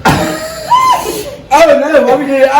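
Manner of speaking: laughing. Real, not acted. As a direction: laugh and yell it out. Laughing about the challenge.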